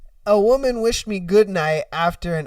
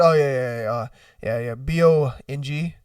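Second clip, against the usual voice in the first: low, reluctant answer to a password question; lightly voiced sheepish customer; 8 semitones lower, 3 dB quieter than usual. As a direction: mumble it low, slightly embarrassed. Embarrassed customer giving silly password.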